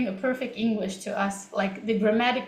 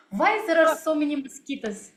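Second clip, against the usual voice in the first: higher-pitched Russian-accented English; 4 semitones higher than usual. Shown as a demonstration. Teacher giving viewers the next test sentence, Russian accent. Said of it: "I was also speaking in this way".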